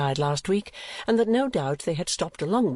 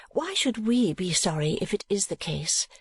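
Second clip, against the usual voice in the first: higher, gently questioning daughter; gentler tone; 6 semitones higher than usual. A narrator's reading. Daughter reasoning with her mamma, gentle. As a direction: ask it gently, without extra force. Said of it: "in a more gentle tone".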